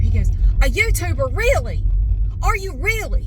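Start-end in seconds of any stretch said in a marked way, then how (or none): 0.6-1.3 higher mock-incredulous voice; incredulous echo. Siding guy reacting to customer's job, imitated incredulity. Caller echoes her answer in disbelief. 1.4-3.3 much higher, pointed mock questioning; imitated pissed-sounding caller. Siding guy questioning a customer's job, imitated pissed-off disbelief. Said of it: "He sounds pissed".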